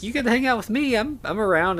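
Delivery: high-pitched, eager offer of company; lightly acted hopeful plea; Igor, hopeful suitor. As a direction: pitch it way up, like a lovestruck sidekick offering himself.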